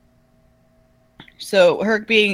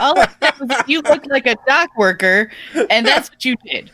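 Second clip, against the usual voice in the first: laughing; 6 semitones higher, 5 dB louder than usual. Real, not acted. Laughing while defending herself.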